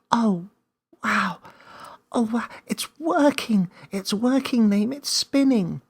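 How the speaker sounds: put-on young Millie shouting with delight as the light spins; excited little girl. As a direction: gasp with wonder like a small girl. Millie thrilled as magic works.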